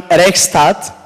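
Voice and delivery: Rechtsstaat said with a hesitant German accent; self-conscious German. Shown as a demonstration. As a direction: try the German word Rechtsstaat, apologising for the German accent. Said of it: "excuse me for my bad German accent".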